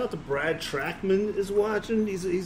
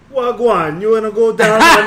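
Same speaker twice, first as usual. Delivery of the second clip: loud Jamaican take on Australian; failed Australian, Jamaican accent; 5 semitones higher, 13 dB louder than usual. Shown as a demonstration. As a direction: botch Australian into high Jamaican. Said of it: "All my accents are Jamaican".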